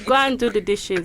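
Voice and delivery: dismissive Nigerian mother act; Nigerian accent. Pretend. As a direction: wave the son off in a Nigerian accent. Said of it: "I'll give you Nigerian".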